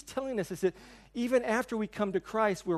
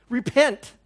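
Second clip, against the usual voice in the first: mock stern command; 5 semitones higher, 8 dB louder than usual. Quoting girl commanding repentance.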